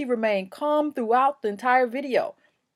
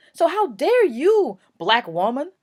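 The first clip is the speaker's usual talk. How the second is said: a touch of an indignant cop, louder; higher, louder mock contempt; mock outraged cop; 5 semitones higher, 4 dB louder than usual. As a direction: scold her as the cop would. Voicing the cop's contempt.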